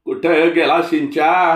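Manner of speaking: put-on old man yelling कुठं through the house; shrill Malvani old man. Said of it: "चिरका Malvani हेल".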